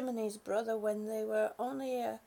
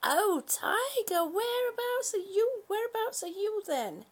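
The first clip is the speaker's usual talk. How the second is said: calling the cat; 8 semitones higher than usual. Real, not acted. Looking around for hidden cat.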